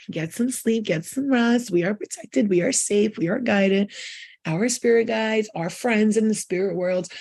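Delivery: slow, gentle blessing; soothing goodnight blessing. Acted. Sending her viewers to bed with a slow, gentle blessing. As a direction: lull them toward sleep, slowly.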